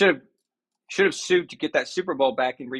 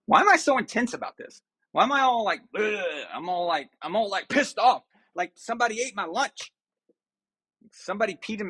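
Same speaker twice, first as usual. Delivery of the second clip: a hammed-up pissy rant at himself; mock huffy; 5 semitones higher than usual. Real, not acted. Vlogger mocking his own huffy mood to viewers. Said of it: "I'm all huffy and puffy and all pissy about this".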